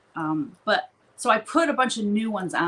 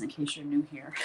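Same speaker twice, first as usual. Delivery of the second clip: whispered aside; 4 semitones lower, 6 dB quieter than usual. Real, not acted. Whispered aside to new viewers.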